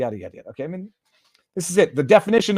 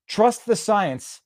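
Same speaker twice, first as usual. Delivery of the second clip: sarcastic; 5 semitones higher, much slower than usual. Real, not acted. Sarcastic jab after statistic.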